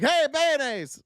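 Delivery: sling it like a street taunt, hammed-up; mock epithet yell. Streamer imitating the insult shouted at a commentator, mock yell. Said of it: "people were screaming, uh, racial epithets".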